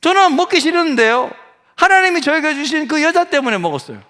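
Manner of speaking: high, whiny excuse from Adam; mock blame-shifting. Acting Adam blaming the woman. (높은 목소리로 억울한 척 변명하듯)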